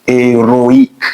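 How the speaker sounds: Héroïque with O and I as two sounds; Héroïque as é-ro-ïque, no blending; vowels kept apart. Shown as a demonstration. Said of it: "différent de ce qui est ici".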